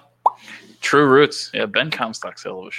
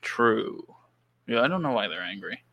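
chewing gum; 4 dB quieter than usual. Real, not acted. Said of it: "Are you chewing gum?".

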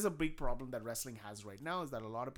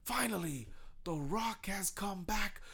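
louder, slow, drawn-out wrestling promo; milk the hometown crowd; hammed-up wrestler announcement; The Rock promo; 5 semitones higher, 8 dB louder, slower than usual. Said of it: "he's like".

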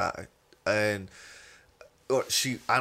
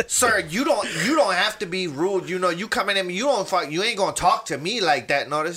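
higher-pitched telling-off of a customer; lightly imitated manager rebuke; 5 semitones higher than usual. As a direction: mildly mimic a manager standing her ground. Voicing manager scolding customer.

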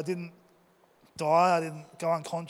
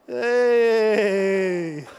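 startled yelp; 2 semitones higher, 6 dB louder than usual. Retold or imitated. Wave hits.

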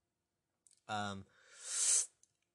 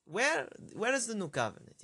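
a hammed-up Jewish accent, pitched higher and louder; a bad Jewish accent playing an indignant questioner, voice raised high; imitating a Jewish objector in an exaggerated, higher accent; terrible Jewish accent; 9 semitones higher, 5 dB louder than usual. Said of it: "that's a terrible Jewish accent".

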